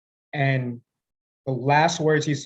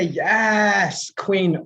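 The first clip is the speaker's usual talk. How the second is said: lightly camp, a bit higher on yes queen; a hint of camp cheer; sassy yes queen; 3 semitones higher than usual. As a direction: toss it off like a sassy best friend. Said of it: "And I say".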